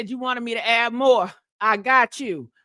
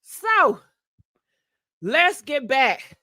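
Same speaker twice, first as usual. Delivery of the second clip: out of breath; much slower than usual. Real, not acted. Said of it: "Shit, I'm running out of breath".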